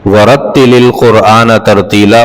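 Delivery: measured tartil recitation of the verse; Quran recitation. Shown as a demonstration. Teacher reciting the verse for students in tartil.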